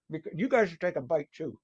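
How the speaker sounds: talking through a mouthful; chewing while talking; mouth full. Real, not acted. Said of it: "I'm sorry to talk with my mouth full".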